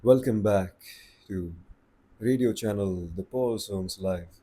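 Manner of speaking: late night radio voice. Shown as a demonstration. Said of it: "You speak like that".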